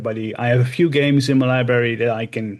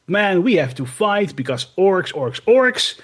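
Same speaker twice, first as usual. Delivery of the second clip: orc voice; 5 semitones higher than usual. Retold or imitated. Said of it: "did his whole dialogue".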